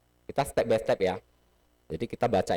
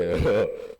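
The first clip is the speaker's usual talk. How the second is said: short laugh; 3 semitones lower, 5 dB louder than usual. Real, not acted. Class laughs at joke.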